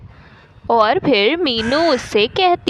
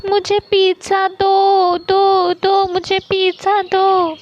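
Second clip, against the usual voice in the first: put-on high, insistent little-boy pestering; pushy, high-pitched kid's tantrum; stubborn child demanding; 8 semitones higher than usual. A narrator's reading. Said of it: "चीकू की इतनी ज़्यादा ज़िद देखकर".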